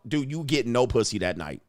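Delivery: normal talking voice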